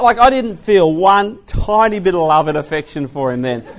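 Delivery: normal talking voice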